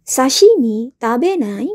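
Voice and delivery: sashimi tabenai, slow and clear with a falling end; a teacher demonstrating a casual invitation; modelled question. Shown as a demonstration. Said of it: "Yang pertama dari kata kerja anai".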